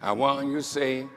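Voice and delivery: a gentle, low hint of a West Indian mother's lilt; imitating mother's West Indian accent. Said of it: "with her beautiful West Indian accent".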